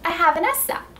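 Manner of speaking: S sounds crisp and clear; careful, clear S in sound. Shown as a demonstration. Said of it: "Then remove the straw".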